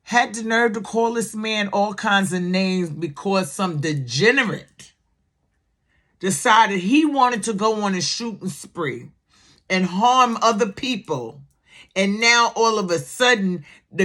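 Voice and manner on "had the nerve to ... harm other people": Bernie Mac voice. Retold or imitated. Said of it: "in my Bernie Mac voice".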